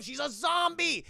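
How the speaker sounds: high, loud exclamation; mock shocked announcement. Streamer revealing Spider Monkey survived, excited exclamation. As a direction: cry out the twist with glee.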